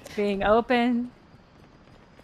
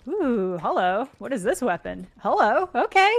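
excited; 3 dB louder than usual. Real, not acted. Delighted at new weapon.

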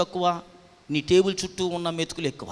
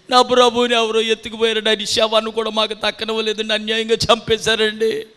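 lightly acted pleading, higher and steady; a hint of tearful lament on a raised, even tone; Mary's plaint; 5 semitones higher, 6 dB louder than usual. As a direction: plead as a grieving follower, pitched up. Voices weeping Mary's complaint to angels.

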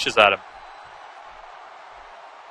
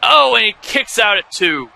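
excited shout; 7 semitones higher than usual. Real, not acted. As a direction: yell the near fall like a commentator. Near fall called live.

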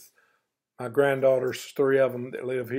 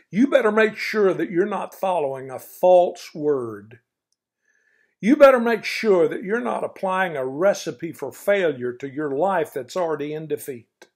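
stern warning; 5 dB louder than usual. Acted. Stern grandpa warnings continue.

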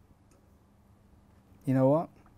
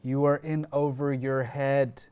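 Philadelphia accent; 4 dB louder than usual. Shown as a demonstration. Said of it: "do you wanna do the rest".

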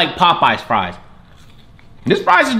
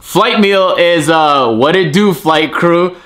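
hype intro; 3 semitones higher, 4 dB louder, much slower than usual. Acted. Hyped opening line to viewers.

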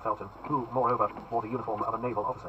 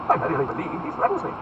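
haughty duke; 4 semitones higher, 4 dB louder than usual. Acted. Buckingham voiced high.

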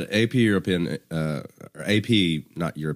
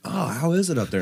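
high, lightly mocking voice of curious classmates; curious schoolmates; 10 semitones higher than usual. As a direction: imitate wide-eyed new schoolmates, pitched up. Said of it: "And they're like".

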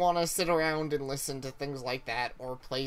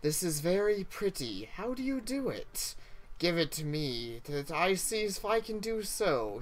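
higher, airy storybook princess; theme park princess; 5 semitones higher than usual. Acted. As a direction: play a wide-eyed fairy-tale princess. Princess voiced in read-aloud story.

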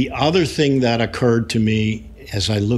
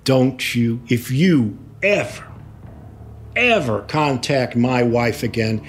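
mild imitation of a menacing husband; halting warning, leaning on the repeated "ever"; retold threat. Lawyer quotes husband warning him off his wife, mildly threatening. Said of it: "where he did threaten me".

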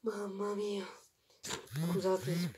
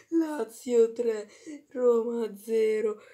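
triumphant call; 2 semitones higher, 5 dB louder than usual. Real, not acted. Fan proclaiming the derby result, triumphant call. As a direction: announce the scoreline like a victory cry. Fan announcing final score.

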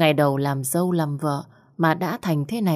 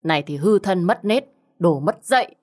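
a moderately loud, harsh scolding, each insult a lash; scolding while beating; 3 semitones higher, 3 dB louder than usual. Acted. Husband scolding his wife as he whips her, harsh and angry. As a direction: spit each insult out like a blow. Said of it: "vừa mắng chửi Lượm".

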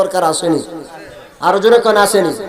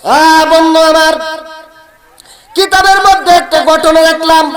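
high, sustained announcing voice; full-force preaching; 9 semitones higher, 4 dB louder than usual. Acted. Preacher introducing a story from the books, high preaching. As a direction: proclaim the name high, pausing between phrases.

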